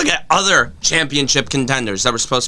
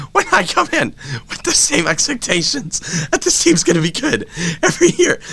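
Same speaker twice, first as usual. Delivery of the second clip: laughing through words; 3 semitones higher than usual. Real, not acted. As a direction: talk while laughing. Laughing while ranting.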